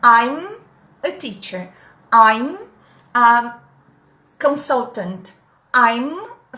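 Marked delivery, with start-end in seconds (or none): 0.0-0.6 I'm with the M held, lips firmly closed; loud I'm, press the lips shut on the M; exaggerated closed M. Shown as a demonstration. Teacher shows students a loud exaggerated I'm. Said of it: "exagerem quando vocês estiverem praticando". 2.1-5.3 I'm a consultant, M held with lips closed; exaggerated closed M. Shown as a demonstration. Teacher drills an exaggerated closed M for the class. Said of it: "exagerem quando vocês estiverem praticando".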